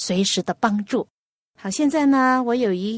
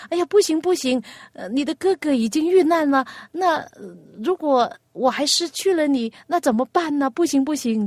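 higher, pleading refusal; worried mother; 5 semitones higher than usual. Acted. Mother begs her younger son not to sail out, anxious and higher.

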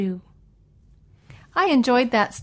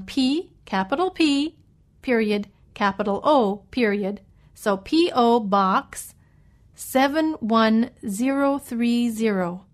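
dictating. Shown as a demonstration. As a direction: spell it out for listeners. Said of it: "let me spell".

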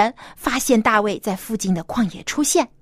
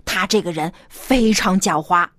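falsely sweet; 2 semitones higher than usual. Acted. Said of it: "他假惺惺地说".

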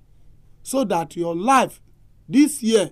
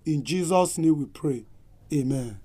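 prayer; 2 semitones lower than usual. Acted. Pastor closes with prayer.

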